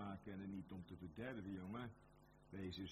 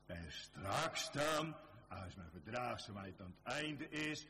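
slow, loud proclamation; 2 semitones higher, 4 dB louder than usual. Acted. Announcing coming glory.

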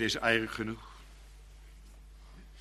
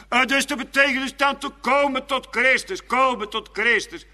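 raised, loud preaching voice; fervent preaching; 9 semitones higher, 7 dB louder than usual. Real, not acted. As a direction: preach it out with full conviction. Preek met volle kracht. (vurig, luid gepredikt)

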